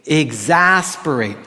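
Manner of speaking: slow, stretched "Exasperate"; "Exasperate" said slowly for repeating; drawn-out word demo. Shown as a demonstration. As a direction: lead the group slowly through "Exasperate". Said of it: "say that with me".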